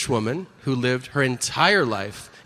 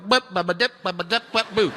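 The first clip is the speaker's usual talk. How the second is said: nonsense syllables in an Alabama twang; Alabama farmer accent; faster than usual. Acted. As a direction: babble like a caricatured Alabama farmer. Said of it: "a farmer in Alabama who's normally like".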